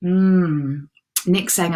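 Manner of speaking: ordinary talk, nothing marked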